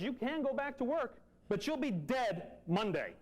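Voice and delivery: grave, slow warning; a doctor's dead-serious verdict. Retold or imitated. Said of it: "the serious voice I've ever heard".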